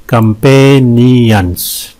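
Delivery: "कंपेनियंस" slowly stretched; syllable breakdown. Shown as a demonstration. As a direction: draw out each syllable of "कंपेनियंस". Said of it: "इसमें तीन syllables हैं". ("कंपेनियंस" को धीरे-धीरे खींचकर)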